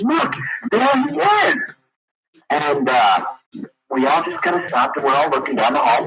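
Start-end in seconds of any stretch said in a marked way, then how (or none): 0.0-1.6 put-on very high, slow little-girl voice; imitating a small girl. Caller imitating the little girl spotting David down the hall.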